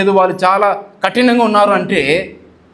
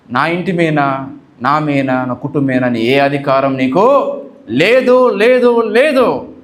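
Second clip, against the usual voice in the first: authoritative rebuke; 3 semitones lower, slower than usual. Shown as a demonstration. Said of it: "అన్నప్పుడు వాడు వెళ్ళిపోతాడు".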